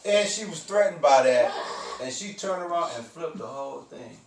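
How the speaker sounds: words broken by laughter; laughing while talking. Real, not acted. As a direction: laugh through the line. Laughing through the story's end.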